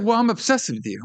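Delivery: mock Johnny. Mocking Johnny then retort.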